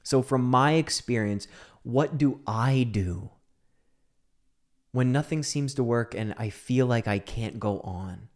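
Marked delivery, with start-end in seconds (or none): none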